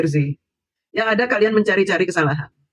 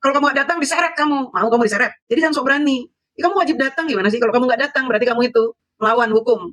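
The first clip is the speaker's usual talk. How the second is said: high-pitched mock scolding, telling him off; scolding retort; 6 semitones higher, faster than usual. To the accused who dodges court, a high mock scolding. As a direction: lecture him like a stern official, voice up high.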